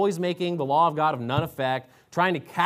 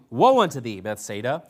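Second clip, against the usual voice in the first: thundering woe; 4 semitones lower than usual. Acted. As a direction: boom the woe at the city. Reading Jesus rebuking cities.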